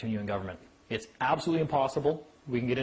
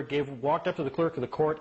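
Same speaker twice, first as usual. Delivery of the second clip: usual speaking voice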